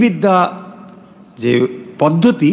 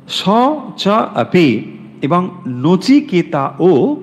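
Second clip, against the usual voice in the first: Sanskrit recitation; much slower than usual. Shown as a demonstration. Chanting the Sanskrit verse.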